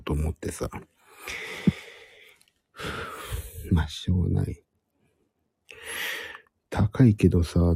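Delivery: hushed whisper throughout. Real, not acted. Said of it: "今日はひそひそ声で話しております。".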